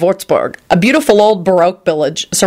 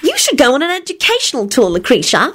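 consoling; 9 semitones higher than usual. A narrator's reading. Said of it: "Solange put in consolingly".

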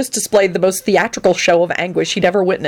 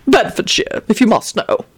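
raised, huffy admission; petulant; 4 semitones higher than usual. Acted. Grindlittle admits where he hid, petulant. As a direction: admit it sulkily, falling away. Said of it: "responded petulantly".

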